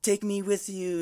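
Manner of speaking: high-pitched mock pleading; desperate plea. Friend acts out a girl's last hope of rescue, mock desperate plea. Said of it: "last minute of hope, she's like".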